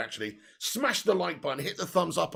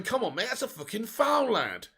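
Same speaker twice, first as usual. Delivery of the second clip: players protesting; 3 semitones higher than usual. Retold or imitated. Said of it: "They're all surrounding the referee going".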